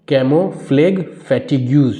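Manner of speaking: "camouflage fatigues" very slowly, piece by piece; "camouflage fatigues" stretched and carefully separated; slow sounding-out. Shown as a demonstration. Sounding out a hard term for learners.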